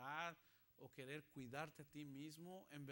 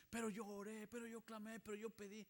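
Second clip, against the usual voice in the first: protesting excuse; 6 semitones higher, 4 dB louder than usual. Acted. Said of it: "Y tú podrías decir".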